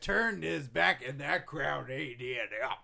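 loud, slow hype announcement; booming promo voice. Acted. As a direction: sell it like a wrestling promoter. Vince hyping Roman.

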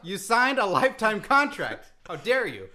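hammed-up scandalized protest; mock outrage. Host accusing his departing co-host of betrayal, mock outrage.

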